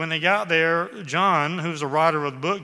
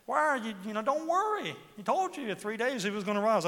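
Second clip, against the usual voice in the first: angels' words; 6 semitones higher, 3 dB quieter than usual. Retold or imitated. Preacher voicing angels' gentle question.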